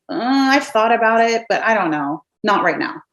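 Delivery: unsure, trailing "not right now"; hesitant maybe. Shown as a demonstration. Prospect hedging on joining, hesitant. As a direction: sound torn and noncommittal. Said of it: "Do you hear the difference?".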